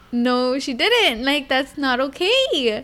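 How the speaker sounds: slow, drawn-out mock disbelief; retold disbelief. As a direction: draw out your dismayed reaction. Mother reacts to daughter's report.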